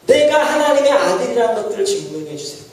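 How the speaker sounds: mock believer pressing God with demands; demanding prayer. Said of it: "라고 우리가 하나님 협박합니다".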